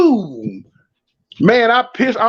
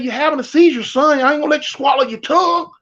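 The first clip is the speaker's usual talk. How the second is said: fast, raised, bossy police voice; officer yelling over a fake seizure; urgent cop shout; 6 semitones higher than usual. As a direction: bark the order while rushing.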